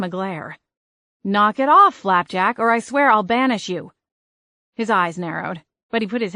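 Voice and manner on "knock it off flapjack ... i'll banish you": louder, higher scolding of the cat; scolding threat. Acted. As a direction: snap a warning at the cat.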